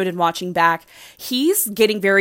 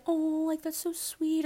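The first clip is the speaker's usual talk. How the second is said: mock sweet gush; 8 semitones higher, 11 dB quieter than usual. Mock sweet reaction she never gave.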